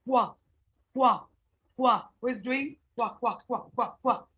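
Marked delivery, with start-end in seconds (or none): 0.1-2.0 "Kwa" as one short syllable, k run into w; sound of QU. Shown as a demonstration. Teacher showing pupils the Q U sound, a short demonstrated "Kwa". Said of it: "The sound is what?". 2.9-4.3 string of short, even "kwa" quacks; duck quacking. Shown as a demonstration. Teacher asks pupils who is doing this, light duck imitation. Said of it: "Duck is doing kwa".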